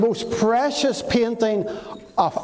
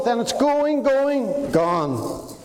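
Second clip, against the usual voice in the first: auctioneer; 4 semitones higher, slower than usual. Retold or imitated. Auctioneer closing the sale.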